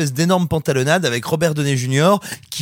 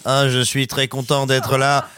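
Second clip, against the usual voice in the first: mock Stephen Hawking; slower than usual. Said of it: "comme Stephen Hawking".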